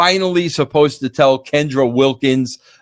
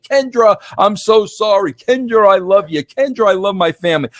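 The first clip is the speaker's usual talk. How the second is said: Hank Bassett crying; 6 semitones higher than usual. Retold or imitated. Mocking the football player crying to Kendra, hammed-up sobbing plea. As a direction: whimper his name like a blubbering man. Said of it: "he's crying and the tears are coming out".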